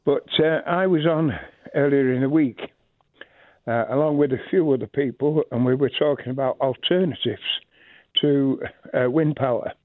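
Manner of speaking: breathless after running back in; panting lightly between words; out of breath. Real, not acted. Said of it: "sorry, I'm out of breath".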